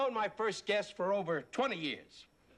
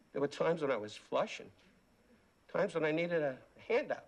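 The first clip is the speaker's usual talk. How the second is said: halting, hurt, with long pauses; wounded; 4 semitones lower than usual. Acted. Host walks off his show after insult, wounded and low. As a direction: sink low as if too hurt to go on.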